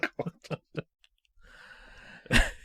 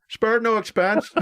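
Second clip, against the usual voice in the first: put-on slow proud old host; lightly voiced showman, drawn out; Attenborough impression; 5 semitones higher, slower than usual. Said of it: "it's gonna be Jim going".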